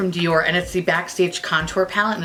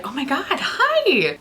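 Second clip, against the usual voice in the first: high, slow gushing hello; mock gushing greeting; 8 semitones higher, slower than usual. Salesgirl greeting her, mock gushing high and slow. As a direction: stretch out a higher bubbly hi. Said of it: "And she was like".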